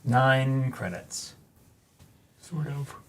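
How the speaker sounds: words stretched through a yawn. Real, not acted. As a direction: talk while yawning. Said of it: "I hate yawning on stream".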